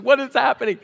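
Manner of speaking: high, loud mock alarm; panicked child. Three-year-old being wanded at security, mock-panicked. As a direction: imitate a bewildered kid freaking out.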